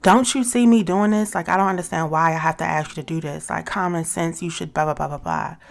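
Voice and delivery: mock exasperated rant at her partner; frustrated nagging. Shown as a demonstration. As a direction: rattle off a fed-up complaint.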